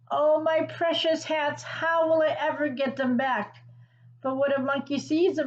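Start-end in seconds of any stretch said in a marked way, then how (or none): 0.1-3.6 mild mock crying. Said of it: "began to cry".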